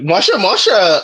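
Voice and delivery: mock Valley accent. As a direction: lightly imitate a Valley accent. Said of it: "the Valley accent".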